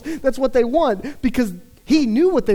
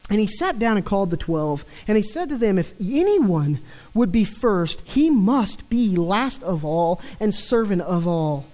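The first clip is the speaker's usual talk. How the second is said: scripture reading. Acted. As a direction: read the passage with weight. Reads scripture passage aloud.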